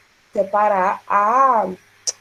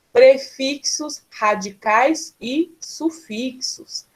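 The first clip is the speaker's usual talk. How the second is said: slow careful listing; 2 semitones higher, much slower than usual. Shown as a demonstration. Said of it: "list read slowly".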